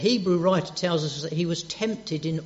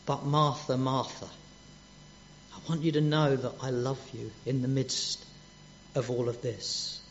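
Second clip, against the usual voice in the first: reassuring love; 3 semitones lower, 5 dB quieter than usual. Retold or imitated. Jesus reassuring worried Martha, quiet and tender. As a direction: lower and softer, fading gently. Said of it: "Isn't that lovely?".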